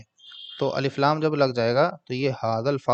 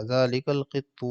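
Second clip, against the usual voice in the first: slow model reading; slower than usual. Shown as a demonstration. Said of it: "ذالک القط slow".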